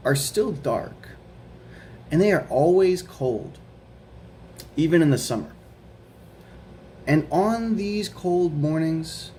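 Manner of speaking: put-on slow, careful read-aloud for children; reading a picture book aloud. A narrator's reading. Teacher reading The Paperboy to her students, slow storytime voice. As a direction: read it slowly to a class of kids.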